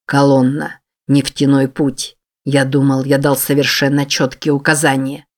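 low, heavy male voice with a sigh behind it; grim low man's voice. Acted. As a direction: speak low, as a weary, menacing boss. Narrator voices David, low and grim.

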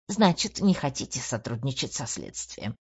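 mocking imitation. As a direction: mimic a cold detective. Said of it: "передразнила она".

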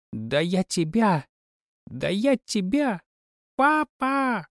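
put-on high, rising childish wail; a spoiled princess yelling for daddy; wailing girl. A narrator's reading. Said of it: "завопила девчонка". (капризный визг)

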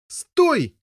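high, loud desperate cry to stop; shout. Acted. Boy yelling at his brother to stop. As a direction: yell stop at the top of your voice. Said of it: "кричал Гаррет".

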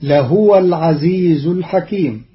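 لهو chanted as lahuwa; Quran recitation. Shown as a demonstration. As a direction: melodic tajweed. Verse recited before the rule.

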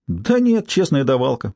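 high scornful scoff; scornful snort. Acted. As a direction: sneer it out with contempt. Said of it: "презрительно фыркнула".

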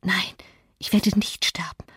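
soft breathy whisper. A narrator's reading. Catherine to herself after a while, whispering. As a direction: whisper it to yourself, barely audible. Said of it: "flüsterte sie".

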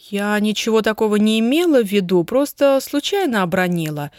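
ordinary delivery, nothing marked

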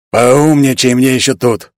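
slow menacing threat; genie voice. Acted. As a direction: warn him off like an angry genie. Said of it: "раздался голос Джина".

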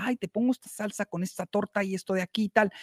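put-on Mexican accent. Cook offering salsa with the torta, light Mexican accent. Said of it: "si he hecho el acento mexicano".

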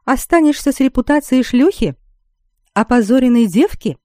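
narrated shrill indignation, short of shouting; shrieking outrage. A narrator's reading. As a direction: throw out accusations in a mild shriek. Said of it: "снова взвизгнула леди Гвиневер".

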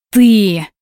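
hoarse wheezing cry; raspy wheeze. Acted. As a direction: rasp it out, clutching chest. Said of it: "прохрипела родительница мужа".

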